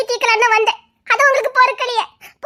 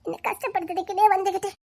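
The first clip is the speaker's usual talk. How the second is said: muttered complaint; 2 semitones lower, 8 dB quieter than usual. Acted.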